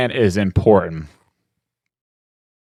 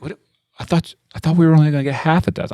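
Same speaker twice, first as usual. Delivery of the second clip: wife protesting; 7 semitones higher, much faster than usual. Retold or imitated. Wife protests order change.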